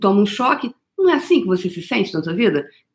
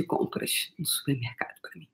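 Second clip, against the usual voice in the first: soft unvoiced whisper; 4 semitones lower, 13 dB quieter than usual. Real, not acted. Speaker to her audience, recalling her friend's care: a soft whisper. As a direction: breathe it out, barely voiced.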